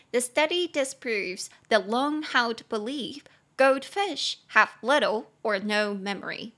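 slow, careful read-aloud of the sentence; slow model reading. Shown as a demonstration. Teacher reading the example sentence slowly to students. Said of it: "teacher reads sentence model".

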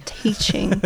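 whispered echo; breathy whispered repeat. Real, not acted. Echoing the punchline.

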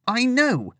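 sharp high exclamation; exclaimed. Acted. Lillian cuts Cassandra off, a high exclamation. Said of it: "Lillian exclaimed".

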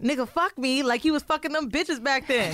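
high, laughing read of the letter; letter line read laughing; laughing quote. Retold or imitated. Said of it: "and I'm like".

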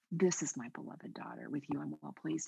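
soft, fading blessing; tender blessing. Acted. Blessing every woman listening, soft and tender. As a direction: bless whoever is listening, gently.

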